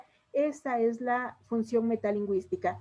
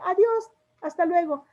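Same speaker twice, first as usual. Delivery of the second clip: higher, cheerful farewell; friendly goodbye; 6 semitones higher, 4 dB louder than usual. Shown as a demonstration. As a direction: wave someone off warmly. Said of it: "cuando estamos terminando una comunicación". (despedida alegre)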